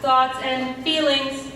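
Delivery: flat monotone robot voice. Acted. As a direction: drone it out evenly, machine-like. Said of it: "You're a giant robot death machine".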